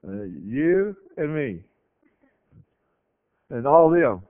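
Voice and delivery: the servant, doubting the prophet's words, muttering in confusion; confused servant. Retold or imitated. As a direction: puzzle it out as a baffled servant. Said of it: "I'm sure he's going like".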